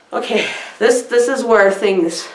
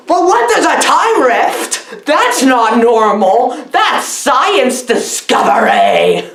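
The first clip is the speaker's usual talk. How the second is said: mock amazement; 4 semitones higher, slower than usual. Voicing amazed characters.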